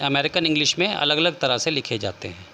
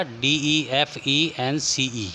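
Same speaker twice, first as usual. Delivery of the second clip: letters spaced out slowly; teacher spelling a word slowly for students; slower than usual. Shown as a demonstration. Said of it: "सी हो जाएगा".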